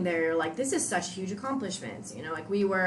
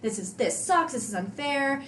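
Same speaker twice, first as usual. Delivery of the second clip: put-on whiny two-year-old tantrum, pitched higher; mock toddler tantrum about the workout; 6 semitones higher than usual. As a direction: retell a childish meltdown, half-hearted. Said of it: "total two-year-old tantrum".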